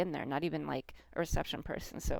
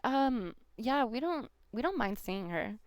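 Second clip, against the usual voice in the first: put-on higher, slightly louder nervous young soldier; a lightly voiced timid soldier stepping in; hesitant soldier; 5 semitones higher, 3 dB louder than usual. Young soldier nervously siding with the girl against her mom, hesitant.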